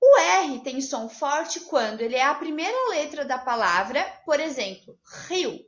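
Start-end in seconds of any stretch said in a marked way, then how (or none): 5.3-5.6 "rio" with a hard, breathy guttural R at the start; strong initial R. Shown as a demonstration. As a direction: lean on the R of "rio" so it sounds like a double R. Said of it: "Parece que é com dois R's".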